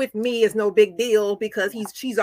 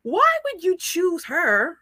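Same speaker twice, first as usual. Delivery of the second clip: incredulous retold question; 8 semitones higher than usual. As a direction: ask him like you can't believe it. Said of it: "I was like".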